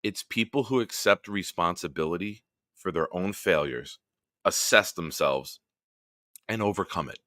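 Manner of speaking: deliberate, spelled-out delivery; nice and slow. Real, not acted. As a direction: lay each phrase down slowly for the viewer. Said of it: "I'm gonna say this nice and slow".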